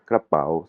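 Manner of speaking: KRAPAO with a bend in the pitch on "pao"; "Krapao" with a broken Thai intonation. Shown as a demonstration. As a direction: break the tone at the end of "Krapao". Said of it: "l'intonation elle est cassée".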